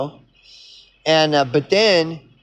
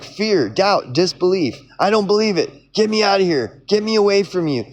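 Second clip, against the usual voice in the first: higher, hammed-up fearful pleading; mock panic, pitched up, pushing it away; retelling the Matrix, Neo's mock-scared higher outburst; panicked Neo; 6 semitones higher, faster than usual. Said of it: "he's like".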